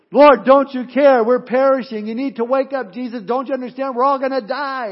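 loud, high panicked plea; acted panic, pitched high and urgent; freaked-out disciples. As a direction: cry out in alarm to be rescued. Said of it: "the disciples are freaked out".

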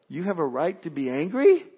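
at normal level, rising on angry in disbelief; incredulous question. Pretend. God questioning the sulking believer, calm incredulous rise. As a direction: gently throw his claim back at him. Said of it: "And God says to us".

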